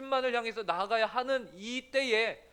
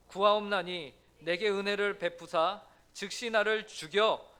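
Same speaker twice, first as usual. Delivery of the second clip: congregational scripture reading. Shown as a demonstration. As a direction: read the verse together deliberately.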